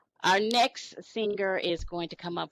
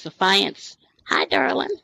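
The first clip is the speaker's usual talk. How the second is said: excited loud greeting; 4 semitones higher, 12 dB louder than usual. Real, not acted. Host greeting next singer loudly.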